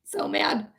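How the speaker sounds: voiceless, seething undertone; quietly mad. Real, not acted. Streamer irritated by the raids, hushed anger. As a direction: hold the anger down to a hush. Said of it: "I'm so fucking irritated".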